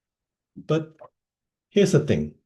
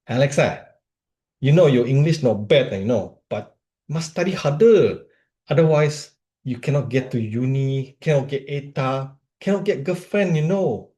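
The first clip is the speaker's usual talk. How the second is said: put-on serious, studious Singaporean accent, pitched up; Ferdinand; 4 semitones higher than usual. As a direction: imitate a Singaporean friend lecturing in Singlish. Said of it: "Ferdinand is from Singapore".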